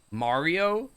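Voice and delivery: drawn-out Mario with an open ah. Retold or imitated. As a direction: say Mario slowly as MAR-ee-oh. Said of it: "if somebody in, like, real life says".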